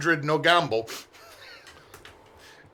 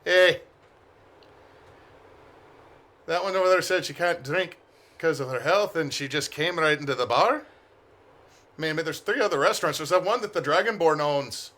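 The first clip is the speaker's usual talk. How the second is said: gossipy stranger. Acted. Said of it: "lean over to the old man and just go".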